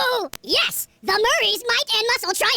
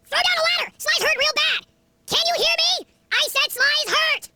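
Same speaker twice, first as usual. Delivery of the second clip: high, urgent calling up for help; desperate call; 7 semitones higher than usual. Acted. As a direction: yell for help, friend is hurt.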